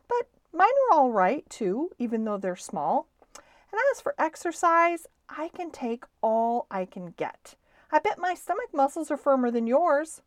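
high, quick, lively comeback; eager boast. Acted. Stuart defending his small teeth and muscles, eager boast.

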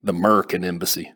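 "Merkin" with the A dropped, Texas style; Merkin for American. A narrator's reading. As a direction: say "Merkin Embassy" as one Texan slur. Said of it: "but pronounced it like Merkin".

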